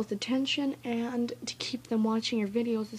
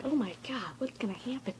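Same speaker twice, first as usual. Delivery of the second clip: hushed, breath-held viewer reaction; mock suspense; 6 dB quieter than usual. Imitating viewers wondering what happens, in a mock suspenseful hush. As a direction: whisper it as if gripped by suspense.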